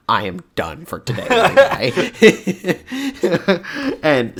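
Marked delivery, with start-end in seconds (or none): 0.1-1.9 voicing the GameCube laser. Telling how the GameCube quit reading discs, laughing. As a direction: give the tired laser a laughing voice. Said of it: "the laser just said".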